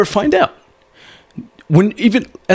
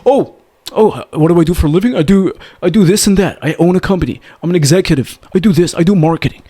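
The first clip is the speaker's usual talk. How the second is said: higher, stiff listing of his job titles; boring resume rattle; 3 semitones higher than usual. Shown as a demonstration. Coach mocks a man answering her question too logically, stiff. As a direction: rattle off the résumé, dull and logical. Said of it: "don't tell her logically".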